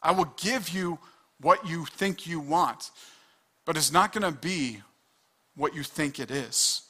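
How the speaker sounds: a hint of God speaking, calm and final; lightly voiced God granting the sinner's wish; voicing God. Pastor voicing God to the rebel, calm and final. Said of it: "God is gonna be like".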